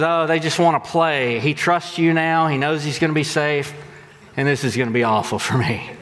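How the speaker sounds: lightly voiced teacher, laughing at her fate; resigned swim teacher. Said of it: "And she goes".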